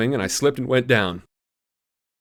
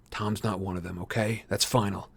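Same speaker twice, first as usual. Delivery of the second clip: firm and final; 3 semitones lower, 9 dB quieter than usual. A narrator's reading. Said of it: "I said".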